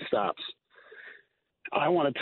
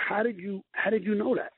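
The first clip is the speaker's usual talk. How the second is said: pitched way up in retold astonishment; amazed question; 10 semitones higher than usual. Firefighter retelling his amazement at a twelve-year-old, high and astonished. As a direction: ask it as if you can't believe a kid knew that.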